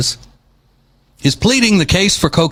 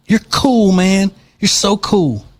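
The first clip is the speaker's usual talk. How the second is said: sarcastic mock praise; 5 semitones higher, slower than usual. Sarcastic jab at the reporter.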